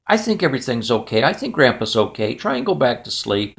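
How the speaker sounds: put-on calm a child back to sleep, voice dropped; reassuring dad. Dad soothes son after nightmare.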